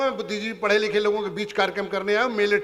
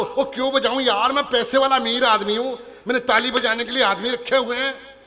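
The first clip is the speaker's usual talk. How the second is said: louder, higher, boastful rich man; arrogant rich man; 3 semitones higher, 3 dB louder than usual. Retold or imitated. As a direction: brag like a bored rich man. Rich man voiced again.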